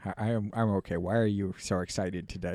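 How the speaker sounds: lightly voiced low cat reply; a hint of a lazy cat answering; cat accent. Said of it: "That's, that's the cat accent".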